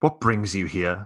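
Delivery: condescending, superior, talking-down tone. Voicing an officer greeting the players: condescending tone. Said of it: "he says in a rather condescending tone".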